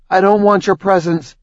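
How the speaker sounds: disdainful. Acted. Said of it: "she tisked".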